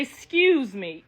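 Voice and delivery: slow soft seventies pass, a hint of flirting; gentle excuse me. A woman sliding by a man, lightly voiced gentle flirting. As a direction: slide by and murmur it gently. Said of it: "It's a gentle thing".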